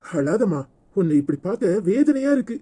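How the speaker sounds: soft, pained sympathy; tender and hushed; gentle consoling. Acted. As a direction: soothe someone who is crying. Comforting a crying woman.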